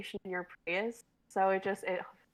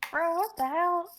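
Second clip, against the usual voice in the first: amused outburst; 8 semitones higher, 5 dB louder, slower than usual. Real, not acted. Reacting laughing to sketch ending.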